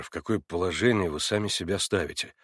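plain reading voice

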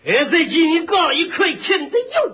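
slow singsong Shandong dialect; stretched Shandong pronunciation; Shandong accent. Shown as a demonstration. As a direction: repeat the order like a Shandong butcher. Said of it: "他管拉不叫拉".

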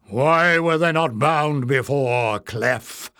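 slow, irritated goblin elder; irritable demand. Acted. Goblin elder scolding Clef, irritably. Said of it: "the new voice demanded irritably".

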